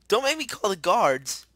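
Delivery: high, loud indignant warning; shouted threat. Real, not acted. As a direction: yell a warning at the intruder. Threatening the intruder.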